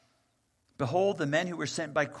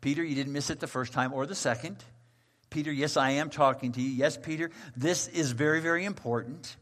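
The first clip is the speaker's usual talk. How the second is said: quick, pointed repetition; insistent emphasis. Acted. God insists to Peter, quick and pointed. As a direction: press the point home to Peter. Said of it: "that's for emphasis".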